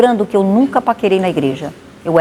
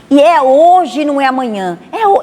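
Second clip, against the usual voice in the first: louder, higher preacher's cry; proclaiming; 4 semitones higher, 4 dB louder than usual. Retold or imitated. Missionary to the congregation, loud higher proclamation. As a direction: proclaim it's today.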